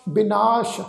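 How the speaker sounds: ਬਿਨਾਸ਼ ending in sh, not s; dotted sassa, sh. Shown as a demonstration. Teacher showing the dotted letter, ਬਿਨਾਸ਼ with final sh. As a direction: say ਬਿਨਾਸ਼ as bi-naash. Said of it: "ਸੱਸੇ ਪੈਰ ਬਿੰਦੀ ਲਗਾ ਕੇ".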